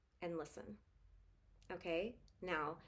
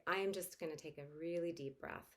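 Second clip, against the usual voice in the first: softening toward a gentle okay; dad calmly explaining the deep breath; calm reassurance; 3 semitones lower, 4 dB quieter than usual. Shown as a demonstration. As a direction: fade into calm as you reassure.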